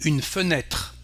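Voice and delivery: "fenêtre" ending on "tr", no final vowel; silent final E. Shown as a demonstration. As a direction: end "fenêtre" on the consonants TR. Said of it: "What you can hear at the end is tr".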